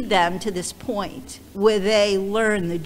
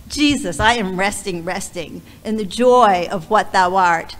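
heartfelt reading of a hymn; hymn recitation; 4 dB louder than usual. Real, not acted. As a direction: recite it as devotional verse. Reads a hymn aloud.

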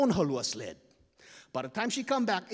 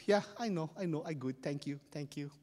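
smug; 3 semitones lower, 7 dB quieter than usual. Acted. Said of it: "he's so arrogant".

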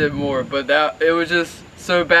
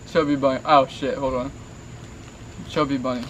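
cheeks stuffed with marshmallows; talking through a mouthful of marshmallows; mouth full of marshmallows. Real, not acted. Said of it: "try to pronounce Chubby Bunny as best as he can".

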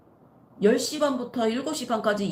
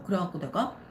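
usual speaking voice

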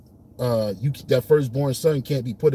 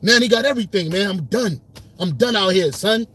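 modern Esau paraphrase; 4 semitones higher than usual. Retold or imitated. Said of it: "He said".

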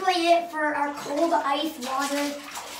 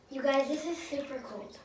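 hushed whisper to the camera; 7 dB quieter than usual. Real, not acted. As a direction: whisper it, half-frozen. Whispers to viewers in ice bath.

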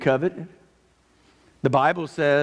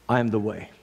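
low, calm quote of Jesus; settled and gently authoritative; 4 semitones lower, faster than usual. Retold or imitated. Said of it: "Jesus very calmly says".

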